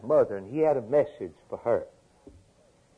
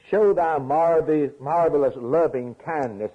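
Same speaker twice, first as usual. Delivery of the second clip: high, louder excited exclamation; excited preaching; 4 semitones higher, 4 dB louder than usual. Real, not acted. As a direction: lift up with wonder.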